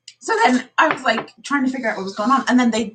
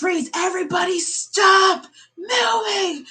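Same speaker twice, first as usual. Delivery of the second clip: higher, shouted lockdown order; retold guard's shout; 6 semitones higher, slower than usual. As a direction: bark the freeze order like a security guard. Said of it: "they go".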